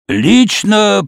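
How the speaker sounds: put-on creaky old man's voice. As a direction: creak it like a frail old man. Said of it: "проскрипел старик".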